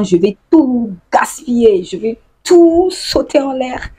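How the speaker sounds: mock fury. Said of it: "Elle là, je suis énervée".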